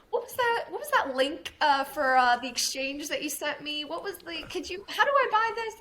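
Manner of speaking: high, loud frantic asking for the link; panicked latecomer. Retold or imitated. Latecomers begging for the exchange link, high and frantic. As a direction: squeal it like you're desperate to get in. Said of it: "and people are like".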